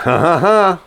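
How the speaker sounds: deliberate "ha ha ha"; stagey mock chuckle; fake knowing laugh.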